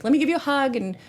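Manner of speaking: high-pitched mimicked fussing; fussing comforter. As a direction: act out an over-concerned comforter. Voicing someone comforting a crying person.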